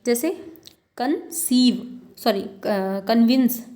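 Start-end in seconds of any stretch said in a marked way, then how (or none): 1.0-2.0 "कंसीव" slowly, with stress on "सीव"; second-syllable stress. Shown as a demonstration. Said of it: "दूसरे वाले में है". 3.1-3.6 "कन्विंस" with a louder "विंस"; second-syllable stress. Shown as a demonstration. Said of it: "आपको विंस में दिख रहा है".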